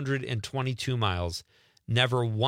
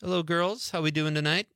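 mock swagger; 4 semitones higher than usual. Imagined swaggering entrance showing off badge.

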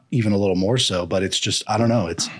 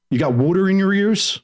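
teasing retort; 9 semitones higher than usual. Retold or imitated. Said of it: "they're like".

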